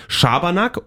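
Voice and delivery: Schabernack rattled off as a list item; hurried "Schabernack", rising at the end; stressed-out list reading. Real, not acted. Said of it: "Klingt eher nach Stress".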